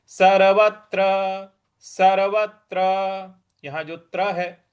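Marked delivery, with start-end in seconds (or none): 0.1-2.8 सर्वत्र with a firm push on त्र; stress on त्र. Shown as a demonstration. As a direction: land hard on the त्र of सर्वत्र. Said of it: "उस पर हमको बल लगाना है". (सर्वत्र में त्र पर बल)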